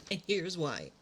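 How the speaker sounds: whispered swear; cheeky whisper. Real, not acted. A cheeky whisper calling the movie bad. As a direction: whisper the rude verdict.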